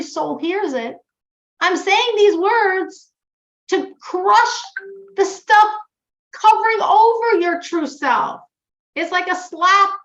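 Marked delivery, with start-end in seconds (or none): 1.6-8.4 forceful emphasis. Retold or imitated. God's harsh words crushing junk.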